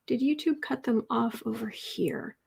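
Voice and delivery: slow whispered aside; slow muttered whisper; whisper to self. Real, not acted. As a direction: ask yourself under your breath. Muttering while scrolling.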